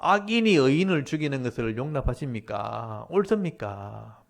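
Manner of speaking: drawn-out protesting question; Habakkuk challenging God. Retold or imitated. Habakkuk asks God why evil kills the righteous, challenging. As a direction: demand an answer, stretching the last question. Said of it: "그래서 하박국이 따지는 겁니다".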